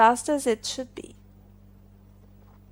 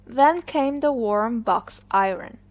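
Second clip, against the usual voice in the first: ordinary delivery, nothing marked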